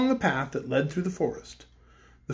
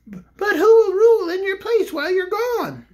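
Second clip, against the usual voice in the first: higher, louder worried bear voice; a fretting bear asking, pitched up; yellow bear; 14 semitones higher, 5 dB louder than usual. A narrator's reading.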